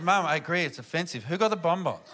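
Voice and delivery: unruffled reply, back down from the screaming; cool, calm, collected. Retold or imitated. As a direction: imitate a daughter calmly standing her ground. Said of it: "so cool, calm and collected".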